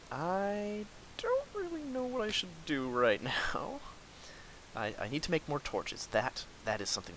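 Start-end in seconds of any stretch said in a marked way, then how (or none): 0.1-3.8 breathy whisper, slow and high. Real, not acted. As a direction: whisper it helplessly. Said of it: "whispered, unvoiced".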